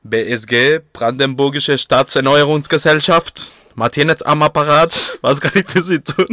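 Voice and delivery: formal, slow, loud phone greeting; customer service voice. Retold or imitated. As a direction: answer like a company receptionist. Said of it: "O sea, primero".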